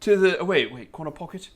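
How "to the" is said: high, excited mock-British commentary; hammed-up English gent recounting American football; British accent. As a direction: put on a swooping, louder British voice. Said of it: "So have a British person".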